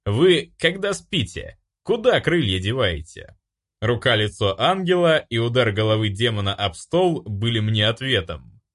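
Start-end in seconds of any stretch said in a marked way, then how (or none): 0.1-3.4 solemn. A narrator's reading. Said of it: "я торжественно произнёс".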